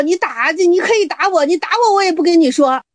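high, defiant refusal; stubborn master. Acted. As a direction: dig in and refuse to budge.

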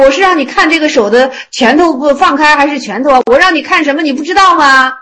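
lightly acted exasperated teacher; mildly exasperated. Buddha scolds Ananda over the fist, mildly exasperated. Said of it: "释迦牟尼佛给气的".

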